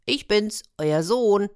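little hedgehog son. Acted. Hedgehog introduces himself to parents.

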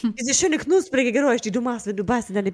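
talking while chewing pizza; mouth full. Real, not acted. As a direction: speak with food in mouth. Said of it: "ich esse hier nebenher".

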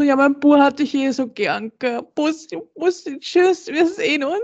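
high, sugary goodbye voice; sweet mother voice. Retold or imitated. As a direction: gush like a doting mom. Boyfriend's mother saying goodbye sweetly.

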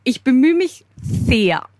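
a slight lisp on S; struggling with S through braces. Real, not acted. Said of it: "beim S ist es ein bisschen schwierig".

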